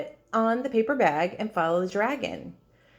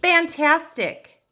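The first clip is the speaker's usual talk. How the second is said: higher, louder, slow exclaimed fantastic; shout; 8 semitones higher, 6 dB louder, slower than usual. Acted. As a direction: cheer him on with a big slow shout. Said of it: "but Elizabeth shouted".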